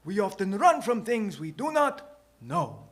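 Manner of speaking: high, put-on old man voice, unhurried; old character voice, calmly explaining; calm old shoemaker. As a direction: answer as a composed old sage. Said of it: "he calmly replies".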